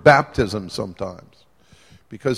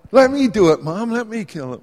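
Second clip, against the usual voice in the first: put-on much higher, pleading kid voice; eager child; 9 semitones higher, 4 dB louder than usual. Preacher teasing listener, mock child begging mom.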